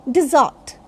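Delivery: dessert as di-ZURT, weight on the end; model pronunciation. Shown as a demonstration. Teacher naming the sweet dish, di-ZURT. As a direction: stress the second syllable of dessert. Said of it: "R will be pronounced".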